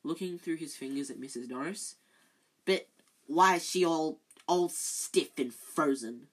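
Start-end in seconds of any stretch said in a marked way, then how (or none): 2.6-6.3 distressed Filch. Acted.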